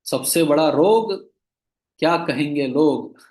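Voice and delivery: slow, weighty slogan with रोग leaned on; slow proclaimed slogan; slogan recited. Shown as a demonstration. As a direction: recite it slowly like a motto, landing on रोग. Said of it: "एक slogan है".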